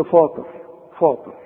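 فاطر with a dark, backed "faa"; over-thicken the first vowel of فاطر; wrongly heavy Fa. Shown as a demonstration. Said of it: "كل دي غلط".

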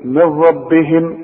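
"من ربهم" with the noon fully merged into the raa, slow; "من ربهم" joined as "mirrabbihim", no ghunna; idgham, no nasal. Shown as a demonstration. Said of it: "هقول إيه؟".

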